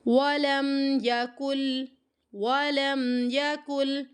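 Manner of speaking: very slow chanted قل هو اللہ with drawn vowels; Quran recitation. Shown as a demonstration. Teacher recites slowly so students read along. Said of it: "آگے next".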